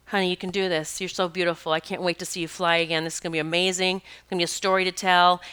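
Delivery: soft, tender coaxing; soothing encouragement. Retold or imitated. Healer talking to the stunned bird in her hands, soothing. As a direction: speak softly, as if nursing a hurt bird.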